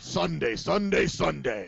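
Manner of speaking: monster truck ad. Retold or imitated. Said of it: "the monster truck commercial".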